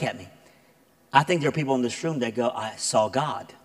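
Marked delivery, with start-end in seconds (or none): 2.5-3.5 casual claim. Shown as a demonstration. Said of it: "it's the same statement".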